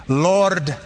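imitating a thick Scottish brogue, slowing on the prayer; a preacher's mild Scottish brogue, drawn out and fond. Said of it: "in his thick Scottish brogue".

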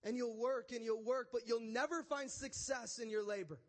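forceful, loud pronouncement of doom; God. Acted. God pronounces sentence on Cain.

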